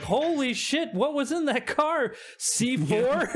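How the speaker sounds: high, incredulous exclamation; astonished outburst. Acted. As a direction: react stunned to a huge blast. GM voices shock at explosion.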